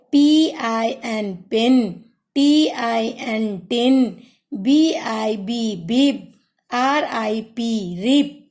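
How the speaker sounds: slow spelled letters, then the word blended; teacher leading a class in repeating after her; slow phonics drill. Shown as a demonstration. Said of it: "phonic sound आई पढ़ेंगे".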